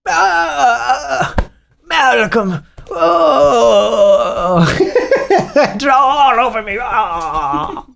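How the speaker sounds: high, giggling fake rapture; mock swoon. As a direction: swoon over him while cracking up. Mock swoon over a comment.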